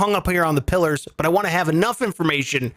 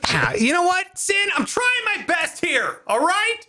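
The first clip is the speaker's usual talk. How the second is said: mock angry outburst; 13 semitones higher than usual. Host mock-yells at a sarcastic listener, hammed-up anger. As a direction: pretend to blow up at the chat, over the top. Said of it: "Angry guy".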